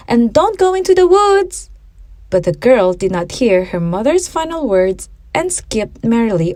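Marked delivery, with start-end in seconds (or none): 0.1-1.7 high, louder call after her. A narrator's reading. Mother calling after her daughter, raised voice. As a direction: call out to a child running off. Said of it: "her mother called out".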